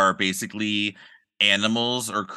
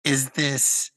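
high, slow crone voice; old witch voice; 5 semitones higher, much slower than usual. Pretend. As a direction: drag it out like a withered hag. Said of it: "pretend like I'm the old witch".

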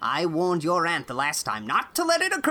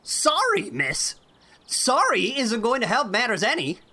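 put-on angry old man; 5 dB louder than usual. A narrator's reading. Irate farmer scolding Anne over the cow, furious. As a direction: rage at the girl, pounding each word.

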